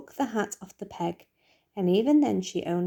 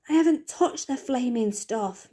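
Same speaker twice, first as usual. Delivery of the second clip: angry shout; 5 semitones higher than usual. Acted. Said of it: "Mister Wormwood shouted".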